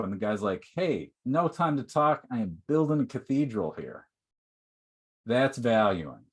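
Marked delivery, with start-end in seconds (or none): 0.7-4.1 bright, raised, happy brush-off; bursting with joy, too busy to chat; ecstatic worker. Acted. Happy stone cutter answering the traveler, excited. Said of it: "like, ecstatic".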